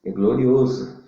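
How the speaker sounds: impassioned preacher pleading with the listener; fervent preaching. Acted. Preacher calling a brother in darkness to Jesus, fervent preaching.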